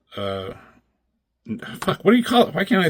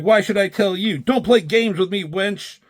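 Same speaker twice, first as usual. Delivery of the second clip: higher, mocking villain voice; villain's taunt; 9 semitones higher than usual. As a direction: sneer it like a comic villain. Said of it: "He's like".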